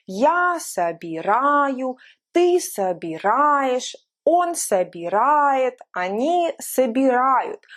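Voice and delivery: each form slow, stress kept on а; slow stress drill. Shown as a demonstration. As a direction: drill собираю, собираешь, собирает, собирают slowly, stressing а. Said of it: "the stress did not change from the vowel A".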